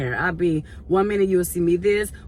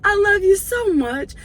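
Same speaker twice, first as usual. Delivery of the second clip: put-on tender elderly lady; 12 semitones higher, slower than usual. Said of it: "she said".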